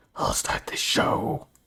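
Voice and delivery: whispered, hushed, breathy devil voice. Telling the story of the devil's fiddle contest, speaking as the devil: devil voice. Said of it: "I love the devil's voice".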